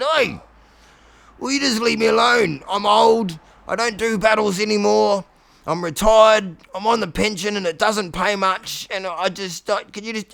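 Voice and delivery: put-on grumbling old dragon; grumpy old dragon. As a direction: whine like a tired pensioner.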